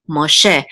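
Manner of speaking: Moshe said mo-SHE, final syllable stressed; stress on last syllable. Shown as a demonstration. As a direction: put the weight on the "she" in Moshe. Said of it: "correct way to pronounce it".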